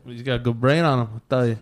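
hint of an old Italian man; chummy old Italian neighborhood guy, lightly put on; old Italian man accent. Old guy vouching for Joey, light old Italian accent. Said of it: "like an old Italian man accent".

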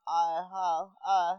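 "I, ha, I" as loose half-words; mock lazy ad-lib syllables; lazy rapper imitation. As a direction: imitate rappers barely enunciating "I, ha, I". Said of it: "they don't even be rapping".

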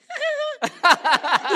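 sollozo agudo fingido, medio risa; llanto imitado. Retold or imitated. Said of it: "y lloraba". (llorando de mentira, entre risas)

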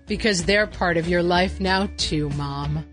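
slow, upbeat ad read; commercial announcer. Acted. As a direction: sell it like a TV spot. Parody ad announcer.

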